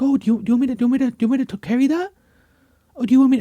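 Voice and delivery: high, sing-song helper voice; overly sweet to an old lady, a bit cringe; talking down to the elderly. Retold or imitated. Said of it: "I was helping this old lady".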